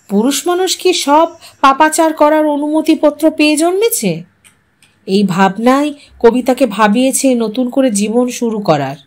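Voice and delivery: ordinary delivery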